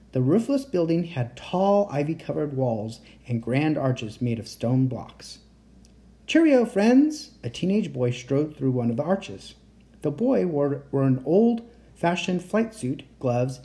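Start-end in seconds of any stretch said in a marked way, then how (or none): 6.3-7.3 high, loud, drawn-out hail; hearty greeting. A narrator's reading. Teddy hails his friends as he arrives, hearty greeting. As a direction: call out a jolly hello to friends.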